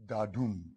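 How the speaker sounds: "Dadum" with weak Da, strong dum; unstressed-stressed foot. Shown as a demonstration. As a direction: say "Dadum", leaning on the second syllable. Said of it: "with an unstressed syllable followed by a stressed".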